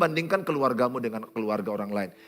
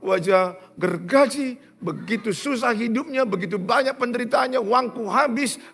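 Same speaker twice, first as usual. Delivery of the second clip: acted tearful complaint; 8 semitones higher, 4 dB louder than usual. Betrayed wife complaining about her husband to the pastor, tearful wail. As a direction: act out her heartbroken grievance, half crying.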